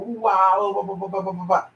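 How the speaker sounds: quick run of babbled filler; mock rambling. Mocking clients who ramble instead of asking specific questions, babbled. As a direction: imitate someone going on and on. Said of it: "questions are about, they're specific. Not".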